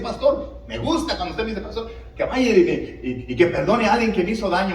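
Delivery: mock claim, laughing. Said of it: "Tú me puedes decir".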